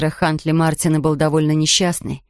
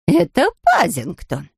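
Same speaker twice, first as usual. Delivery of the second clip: higher, lively exclaim; excited recognition; 6 semitones higher, slower than usual. A narrator's reading. Family spots Paddington in the debris, higher excited call. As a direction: call out the name, relieved.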